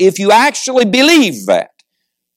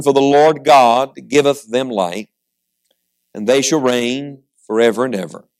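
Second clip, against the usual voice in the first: scripture reading. Acted. Preacher reading prophecy to the congregation, measured scripture reading. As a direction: read it solemnly, stretching the phrase endings.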